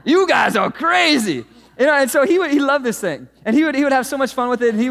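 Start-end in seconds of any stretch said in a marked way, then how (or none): 0.1-1.4 slow, loud cartoon zebra catchphrase; toy zebra voice. Pastor mimicking the zebra toy for the congregation, slow and loud. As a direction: stretch it out like the talking toy. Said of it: "And he'd say it just like that".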